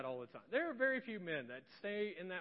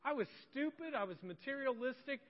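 honest apology; 4 semitones higher than usual. Shown as a demonstration. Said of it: "be honest about it and say".

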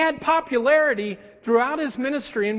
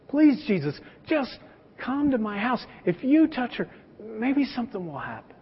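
a touch of a desperate father pleading, softer; lightly voiced worried father, quiet and urgent; 3 dB quieter than usual. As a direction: beg him to come save your daughter. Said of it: "And he goes".

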